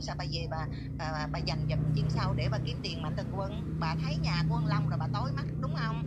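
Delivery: loud, furious scolding; angry shout. Real, not acted. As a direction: yell the accusation at her. Angry rant at the mother. (quát lớn giận dữ)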